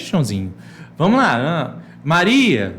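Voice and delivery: loud, high, lively teacher voice; teacher quizzing pupils. Shown as a demonstration. Teacher demo to imaginary pupils, loud and upbeat. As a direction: play the teacher cheering on a pupil. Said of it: "Faça perguntas para os seus estudantes imaginários".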